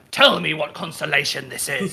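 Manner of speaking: slow, lightly voiced orc; a hint of slow orc speech. Player lying down stargazing with the guards, light orc voice. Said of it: "Is that your orc voice?".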